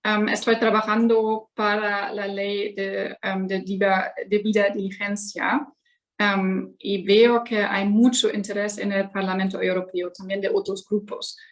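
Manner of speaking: Spanish spoken with a German accent; careful Spanish from a German speaker. Real, not acted. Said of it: "soy alemana y mi español es, eh, muy mala".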